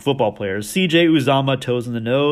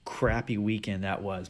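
dejected groan; 5 semitones lower, 12 dB quieter than usual. Real, not acted. Groaning over bad fantasy weekend.

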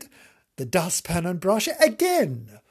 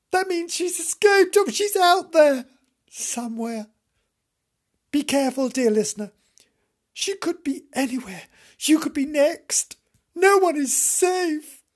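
high ominous warning voice; horror trailer voice; 6 semitones higher, 3 dB louder than usual. Acted. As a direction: warn them like a scary trailer. Warns listeners of Psycho Sue.

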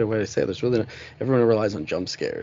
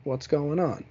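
caring check-in; 6 semitones higher, slower than usual. Retold or imitated. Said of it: "just come up to me and go".

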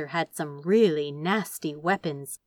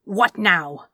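a sharp, louder snap of nerves; snapped; 7 dB louder than usual. Acted. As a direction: bite the words out. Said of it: "he managed to snap".

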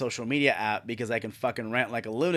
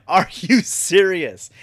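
outraged; 4 semitones higher, 6 dB louder, slower than usual. Retold or imitated. Outrage at HR's excuse.

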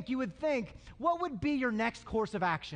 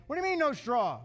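mock indignant complaint; indignant, protesting question; griping. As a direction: gripe like a disbelieving worker. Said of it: "You can imagine the griping".

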